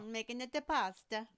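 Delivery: mock Italian accent, lightly done. Teasing partner about making pasta, bad Italian accent. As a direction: put on a shaky-grade, jokey Italian accent. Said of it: "It was supposed to be Italian".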